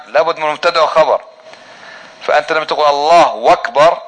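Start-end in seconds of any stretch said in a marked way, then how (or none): 2.9-4.0 "الله أكبر" said as "الله وأكبر"; slow "الله وأكبر"; takbir with waw. Shown as a demonstration. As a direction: show the incomplete sentence: a w sound between "الله" and "أكبر". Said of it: "ما تمت الجملة".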